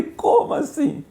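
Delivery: breathless, slow whispered disbelief; astonished. Real, not acted. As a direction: gasp out the question in amazement. Surprised by friend's news.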